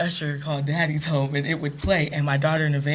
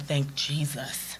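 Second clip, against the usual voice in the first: slow, softer whispered aside of gratitude; whispered thanks; 2 semitones lower, 7 dB quieter, much slower than usual. Real, not acted. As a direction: breathe the thanks quietly. Grateful aside.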